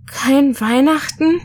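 put-on a child's stunned, hushed question; breathed disbelief. A narrator's reading. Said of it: "hauchte ich ungläubig".

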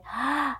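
quick mock gasp; sharp gasp. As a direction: gasp as if spotting a treat. Acted gasp before cupcake hint.

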